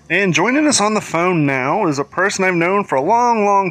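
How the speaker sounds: loud, booming radio host intro; radio announcer. Acted. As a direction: announce the guest with big energy. Introduces phone guest like host.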